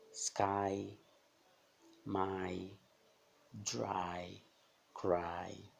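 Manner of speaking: SKY, MY, DRY, CRY terminando em "ai"; som de "ai". Shown as a demonstration. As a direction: diga o Y final como "ai". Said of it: "também tem o som de". (SKY, MY, DRY, CRY com Y soando "uai" sem o U)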